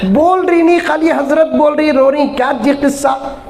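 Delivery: a hint of a fed-up complaining voice; mock whiny complaint. Retelling his complaint about caller.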